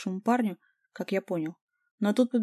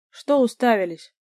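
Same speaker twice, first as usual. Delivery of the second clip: louder, slow angry bark; 3 semitones higher, 8 dB louder, slower than usual. A narrator's reading. Lyoshek barks at the phone-filming onlookers, loud and slow. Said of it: "рявкнул на них Лёшек".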